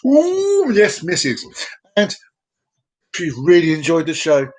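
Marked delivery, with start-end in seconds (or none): 0.1-1.4 a very high squeal; mock delighted squeal; playful ooh. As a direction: squeak it out coyly. Playful exclamation.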